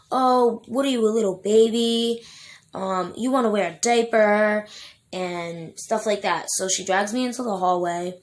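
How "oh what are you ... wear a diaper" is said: high, loud sneering mockery of a child; mocking taunt. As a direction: taunt like a cruel adult mocking a baby. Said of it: "I remember her saying".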